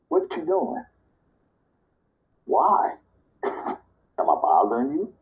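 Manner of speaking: high, mock-irritated snap at a nosy stranger; mock snippy reply. Answering a nosy stranger, mock irritated. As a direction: play up being bothered, half-joking. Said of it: "If a total stranger walk up to me and ask me".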